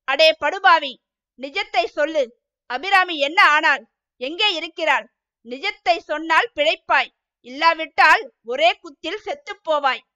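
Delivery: mildly stern, menacing demand; harsh voice. Acted. Muthaiyan with a knife interrogates Sangu Pillai, mild harsh threat. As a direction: threaten him to get the truth, understated. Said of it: "கடுமையான குரலில்".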